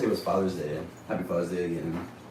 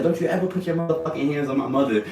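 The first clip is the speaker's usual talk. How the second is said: higher-pitched mock threat; retold angry warning; 6 semitones higher than usual. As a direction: act out a brother warning someone off. Retold threat during family fight.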